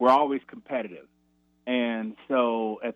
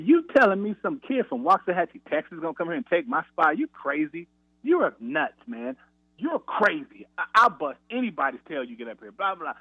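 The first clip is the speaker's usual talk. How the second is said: going off on coach; 5 semitones higher than usual. Retold or imitated. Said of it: "I start going off on him".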